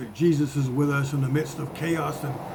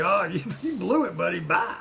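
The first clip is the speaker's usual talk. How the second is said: mocking laugh; 4 semitones higher than usual. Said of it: "Jesus doesn't say".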